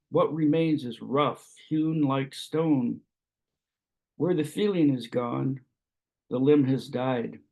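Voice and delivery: measured poetry recital with pauses between phrases; lightly lilting recitation, lines falling at the close; poem reading. Acted. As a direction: read it as verse, phrase by phrase. Reads own poem aloud.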